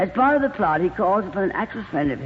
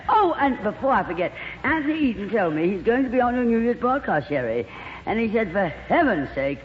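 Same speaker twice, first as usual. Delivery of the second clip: gushing glamorous actress; 2 semitones higher than usual. Acted. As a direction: coo over him like a diva. Plays Lorraine gossiping.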